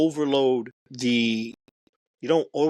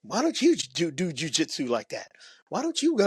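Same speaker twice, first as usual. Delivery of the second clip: high-pitched mock girlfriend voice; put-on high female voice; imitated complaining homegirl; 5 semitones higher than usual. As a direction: mimic a nagging girlfriend, pitched way up. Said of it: "homegirl's like".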